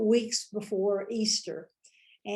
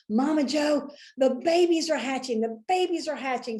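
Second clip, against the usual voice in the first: high, eager calling out; excited residents; 5 semitones higher than usual. Retold or imitated. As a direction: announce the news breathlessly.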